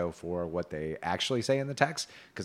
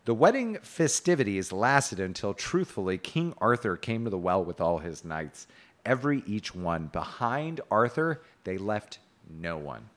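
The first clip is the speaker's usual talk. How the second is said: measured storybook reading, slowing at the close; tale narration. A narrator's reading. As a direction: recite an old romance, landing the last phrase slowly. Reads medieval tale aloud.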